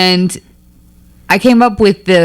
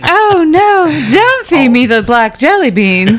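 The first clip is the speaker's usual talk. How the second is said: mock pleading; 8 semitones higher, slower than usual. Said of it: "You're like".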